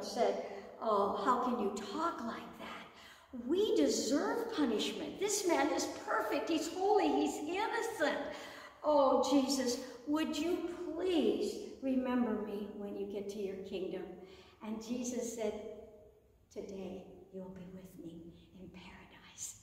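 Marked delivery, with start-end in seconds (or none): 0.8-14.0 a hint of a repentant thief; pleading criminal. 16.5-19.6 soft, low whispered promise; Jesus whispering from the cross. Acted. Jesus answers the thief.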